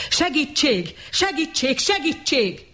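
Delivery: high, desperate cries; screaming for help. A narrator's reading. Bernard screaming at the arriving police. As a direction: yell for the police at full throat. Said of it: "torka szakadtából ordította".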